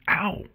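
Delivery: short high yelp of sudden pain. Acted. Artemis stung on the ear, sharp yelp of pain.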